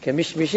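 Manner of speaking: كمشمش said kemishmish, both m's with i; kasra on both mims. Shown as a demonstration. Teacher repeating the word so students write it right. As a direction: repeat كمشمش, each m voweled with i. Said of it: "بكسر ميميه".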